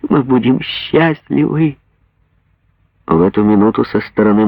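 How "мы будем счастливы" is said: higher, slow joyful exclaiming; mother exclaims to daughter in ecstatic joy; joyful exclamation. Acted. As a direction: clap and cry out with joy. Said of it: "смеяться и восклицать".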